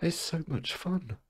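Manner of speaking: high, giggly voice; giddy. Real, not acted. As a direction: squeak it out on the edge of laughter. Giddy, laughing at himself.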